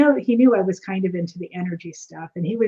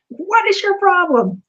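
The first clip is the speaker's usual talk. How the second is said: high, loud, slow demand; mock angry yell; 12 semitones higher, 6 dB louder, slower than usual. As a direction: imitate the trainer barking at her. Trainer grabs her shirt.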